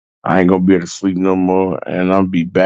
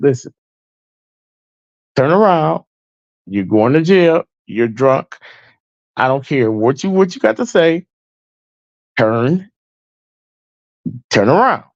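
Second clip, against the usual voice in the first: commanding officer; 5 semitones higher than usual. Retold or imitated. Officer ordering arrest.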